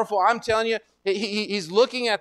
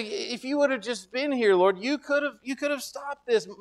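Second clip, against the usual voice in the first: higher-pitched, mildly reproachful lament; hopeless; 5 semitones higher than usual. Retold or imitated. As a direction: voice a grieving plea, pitched up. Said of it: "Hopeless. It's all over".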